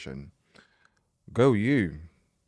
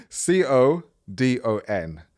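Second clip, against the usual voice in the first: laughing; 3 semitones higher, 4 dB louder, slower than usual. Real, not acted. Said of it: "why did I say it like that".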